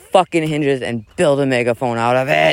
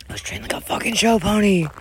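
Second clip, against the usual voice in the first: dramatic high; 7 semitones higher, 3 dB quieter than usual. Acted. Dramatic scripted rant.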